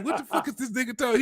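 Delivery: high, fast, laughing through it; laughing disbelief. Retold or imitated. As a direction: laugh it out, baffled. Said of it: "You be like".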